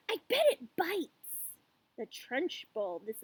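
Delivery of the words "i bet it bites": put-on high, loud excited child; crying out. A narrator's reading. Lavender warns of the creature in the glass, crying out. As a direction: squeal it with gleeful alarm. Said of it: "cried Lavender".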